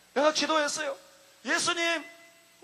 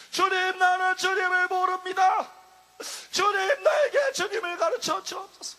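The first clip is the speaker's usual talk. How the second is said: crying prayer; 3 semitones higher than usual. Retold or imitated. The preacher begs the Lord to teach him, tearful. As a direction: beg with a breaking, rising cry. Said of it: "영혼 속에서 막 탄식이 나왔습니다".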